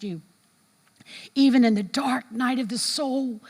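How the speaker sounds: rising, intense prayer voice; impassioned closing prayer; fervent prayer. Acted. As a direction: plead with God for the room.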